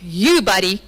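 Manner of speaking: slow, sulky blame-shifting whine; Adam blaming God and Eve, passive aggressive. Acted. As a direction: pin the blame on God with mock innocence. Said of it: "Passive aggressively saying".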